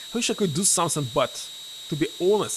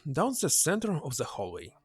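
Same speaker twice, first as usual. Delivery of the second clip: Mitchell explaining. Acted. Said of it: "Mitchell says".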